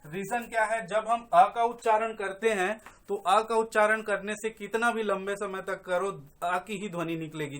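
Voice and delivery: ordinary delivery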